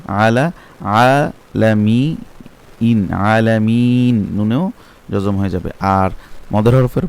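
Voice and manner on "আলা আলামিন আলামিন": আলামিন stretched slowly; slow drawn recitation. Shown as a demonstration. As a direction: draw out আলামিন. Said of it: "তা সেটা কি হবে?". (আলামিন টেনে)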